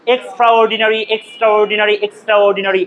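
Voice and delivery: এক্সট্রাঅর্ডিনারি as "ekstra-ordinari", each part sounded; pronunciation demo. Shown as a demonstration. Teacher showing students how to pronounce it, pronunciation demo. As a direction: model এক্সট্রাঅর্ডিনারি evenly, three times over. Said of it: "উচ্চারণটা আমরা একটু দেখি".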